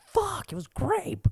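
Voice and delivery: high breathy whisper of disappointment; whispered kid's curse; disgusted whisper. Retold or imitated. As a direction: hiss it under your breath like a let-down kid. Kid disappointed by gumball flavor.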